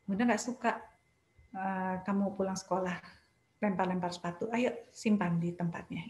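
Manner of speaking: quiet, steady correction; firm but soft, no anger; calm firm parent. Shown as a demonstration. Bunda to child who threw shoes, calm and firm. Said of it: "Itu tegas".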